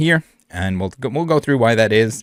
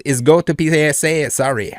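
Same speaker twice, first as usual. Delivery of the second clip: mock French cowboy accent, a bit higher and louder; 5 semitones higher, 3 dB louder than usual. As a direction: read the seller's message in a hammed-up French cowboy accent. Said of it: "it's a French cowboy accent".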